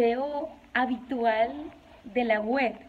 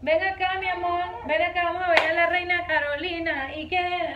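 higher sing-song coaxing; 4 semitones higher than usual. Real, not acted. Mother sing-songing to calm her crying baby.

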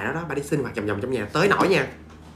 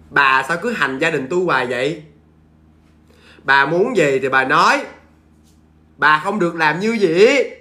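firm scolding. Retold or imitated. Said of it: "Nói vậy đó".

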